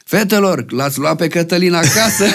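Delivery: imitated call to the crowd; mayor on the microphone. Mayor back onstage after the songs, mock calling out. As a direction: tease the girls as the hammy mayor, near laughter. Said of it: "iar a urcat după vreo".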